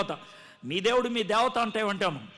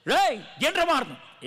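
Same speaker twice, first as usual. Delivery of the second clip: a touch of retold anger, higher; angry retort; 5 semitones higher than usual. Angered by the friend joking about his suicide, sharp retort. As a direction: snap back at the joking friend. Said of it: "పిచ్చ కోపం వచ్చేసింది".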